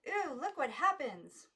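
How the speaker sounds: high slow chorus of wonder; girls crying out. A narrator's reading. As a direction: cry out together in delight. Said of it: "the girls all cried".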